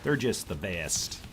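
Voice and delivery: lightly put-on Wisconsin accent, easygoing. Streamer teasing about Packers country, mock Wisconsin accent. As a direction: imitate Upper Midwest locals in a Wisconsin accent. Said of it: "That's what those people in Wisconsin say".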